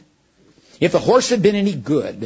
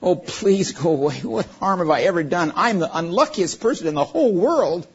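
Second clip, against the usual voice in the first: almost screaming; 6 semitones higher than usual. Acted. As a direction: cry out in terror to the unseen thing. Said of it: "He said almost in a scream".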